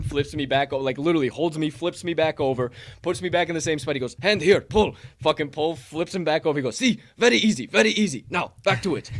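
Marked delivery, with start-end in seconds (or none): 4.2-4.9 bellowing instructor. Retold or imitated. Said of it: "deep, bellowing voice". 6.8-9.1 bellowing instructor. Retold or imitated. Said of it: "deep, bellowing voice".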